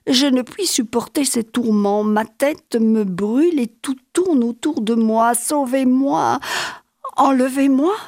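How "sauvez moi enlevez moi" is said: plus aigu, implorant; supplication. Acted. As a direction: crier à l'aide. Appel au secours. (appel au secours aigu)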